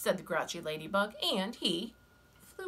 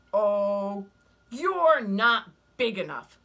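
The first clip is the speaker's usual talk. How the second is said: scornful ladybug voice; 2 semitones higher, 9 dB louder, slower than usual. Acted.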